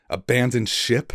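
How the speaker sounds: incredulous question. Acted. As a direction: echo the order in mild disbelief. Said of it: "stared back at him incredulously".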